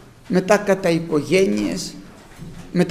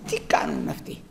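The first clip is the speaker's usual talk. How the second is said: hushed, puzzled whisper; 9 dB quieter than usual. Pretend. People inside the walls asking each other, whispered. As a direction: breathe it like a watcher on the wall.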